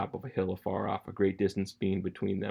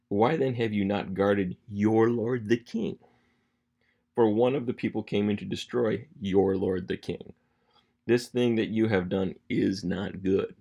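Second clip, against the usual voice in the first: firm, emphatic scolding read aloud; measured, punchy accusation; lipjacking rebuke; 5 dB louder than usual. Acted. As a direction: dress down a negligent guard. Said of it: "Again, just lipjacking Abner".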